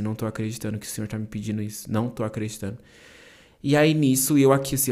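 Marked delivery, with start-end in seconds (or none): 0.0-2.8 softly to himself, slightly lower; retold hushed aside to God; quiet disbelief. Man head bowed in church, praying in quiet disbelief.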